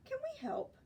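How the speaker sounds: high, sneaky whisper. Acted. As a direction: whisper it like a child slipping in. Children sneak among the fairies.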